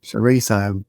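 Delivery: copied Australian CHORIZO; trying out Australian vowels; imitated Australian accent. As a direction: repeat "chorizo" in mock Aussie. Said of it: "some people that pronounce it like this".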